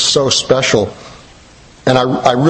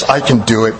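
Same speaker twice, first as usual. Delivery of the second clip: lightly voiced gravelly little boy; a touch of a gruff toddler. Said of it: "He had this gravelly little voice".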